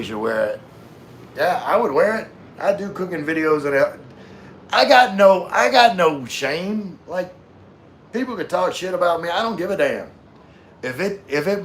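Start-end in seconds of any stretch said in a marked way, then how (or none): 4.7-7.0 emphatic. Real, not acted. Emphatic declaration.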